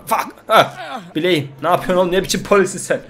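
loud, high cries of pain and protest; pained yelling. Acted. Husband shouting at the fake cop cuffing him, pained and loud. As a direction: yell as the cuffs twist the wrist. Husband arrested, wrist hurting.

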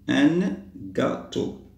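slow "gâteau", split as "gâ", "teau"; slow word model. Shown as a demonstration. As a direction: draw out "un", space out "gâteau". Teacher models the word slowly. (mot découpé lentement)

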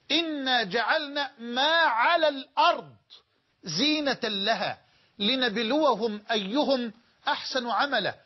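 slow verse recitation with a catch of crying; chanting through real tears; tearful recitation. Real, not acted.

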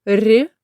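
palatalized "р"; soft consonant. Shown as a demonstration. Teacher naming the consonant type, soft "р". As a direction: say a short, softened "р". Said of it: "м'який приголосний".

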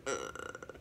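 low, soft creaky "ugh"; uneasy groan. Retold or imitated. Acting out being freaked out.

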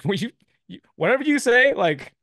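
high, loud, laughing "whatever you say"; hammed-up, starry-eyed obedience; overexcited laughing promise; giddy surrender. Laughing, mock-devoted surrender.

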